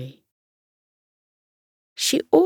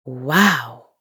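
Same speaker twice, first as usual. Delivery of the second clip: lower, breathy gasp of wonder; gasped wow; 5 semitones lower than usual. Acted. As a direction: gasp in amazement. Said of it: "the hedgehog gasped".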